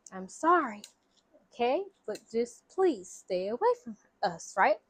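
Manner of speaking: firm but courteous, softening as it goes; stern but polite. Retold or imitated. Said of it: "still trying to be, like, s-, stern, but still polite".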